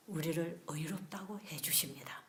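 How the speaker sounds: breathy hushed preaching whisper. Real, not acted. Preacher whispering to the congregation. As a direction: drop to an intimate whisper.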